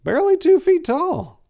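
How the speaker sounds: steady dark storytelling read; story narration. A narrator's reading. Narrator reading a horror story to listeners, dark and steady.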